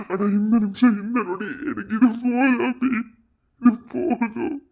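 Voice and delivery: emotional, crying confession, voice lifting as it goes; tearful pleading. Acted. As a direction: beg forgiveness through tears. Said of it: "அழாத, சத்யன்". (கண்ணீரோடு கெஞ்சும் குரல்)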